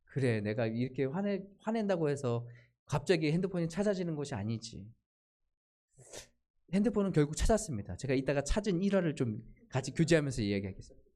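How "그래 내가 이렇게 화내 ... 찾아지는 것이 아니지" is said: calming self-talk. Retold or imitated. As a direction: talk yourself down quietly. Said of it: "좀 차분해지기 시작하는 거예요". (스스로를 달래듯 차분하게)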